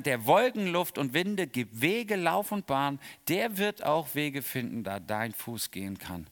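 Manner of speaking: slow, measured hymn verse; calm hymn recitation; hymn recited. Pretend. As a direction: let the verse roll out slowly. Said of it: "sing das dann".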